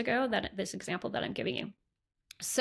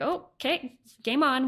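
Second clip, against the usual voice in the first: high, louder eager call; psyched up, ready to go; game on; 4 semitones higher, 5 dB louder, slower than usual. Retold or imitated. Spirit brought the family.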